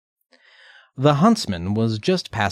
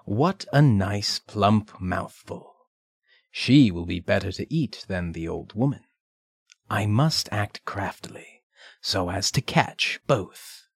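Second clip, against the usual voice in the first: scheming wolf; 3 dB quieter than usual. Acted. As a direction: savour each word like a hungry wolf. Wolf's inner thoughts.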